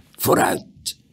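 whispered command to a horse; whispered urging. A narrator's reading. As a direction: urge it on in a whisper. Rider urging horse on in secret.

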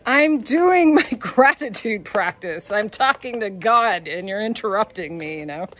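hammed-up outrage at being interrupted; telling off the man who asked for a photo, mock indignant. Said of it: "And I'm like".

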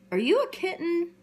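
high, bright little kitten asking. Acted. Kittens asking the puppy, high and curious. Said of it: "and they're saying".

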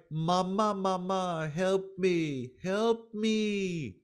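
drawn-out plea to mother, put on; imploring, half-earnest wail; mock crying out. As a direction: act out a child wailing for mama's help. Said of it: "go to the Divine Mother and cry".

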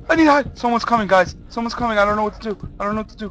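high anxious voice, sinking in volume; helpless panic. Real, not acted. Player telling viewers someone's coming, high and frightened. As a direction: fret urgently as the screaming drains away.

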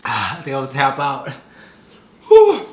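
loud pained gasp, giving up; spicy food. Real, not acted. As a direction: blow out from the burn.

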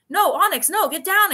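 high, loud mock scolding; scolding a cat. Telling off cat on the windowsill, retold scolding. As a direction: call out as if shooing a pet.

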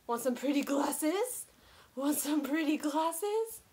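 slow, stretched-out offer. Real, not acted. Aunt offering niece glasses, slow coaxing. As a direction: draw it out temptingly for a little one.

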